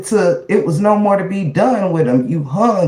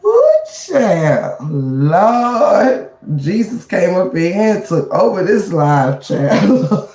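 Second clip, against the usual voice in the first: laughing; 2 semitones lower, slower than usual. Real, not acted. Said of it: "laugh till I teared up".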